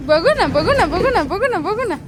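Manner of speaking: loud singsong coaxing; bouncy, pleading call to the pet; coaxing the dog. Real, not acted. Owner to dog, begging to see the ball, loud singsong coaxing.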